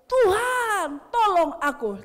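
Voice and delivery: loud desperate cry for help. Acted. Peter sinking, calling out to Jesus, loud pleading cry. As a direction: call to the Lord like you're going under. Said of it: "Lalu berteriak".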